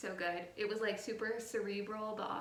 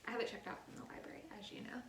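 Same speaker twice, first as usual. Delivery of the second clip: hushed; 7 dB quieter, faster than usual. Real, not acted. Teasing aside to friend.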